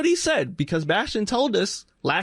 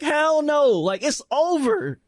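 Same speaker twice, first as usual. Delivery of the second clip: mock dismissive; 6 semitones higher than usual. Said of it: "And I was like".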